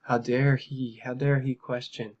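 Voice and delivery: lightly hammed-up affront; mock the article's whining outrage; whiny mock indignation. Host mimicking defenders of the agency, mildly whiny. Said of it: "it's just this whiny article".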